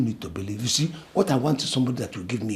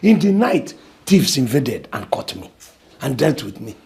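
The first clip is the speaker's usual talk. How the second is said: loud lament; 8 dB louder, slower than usual. Acted. Lamenting his misfortunes loudly.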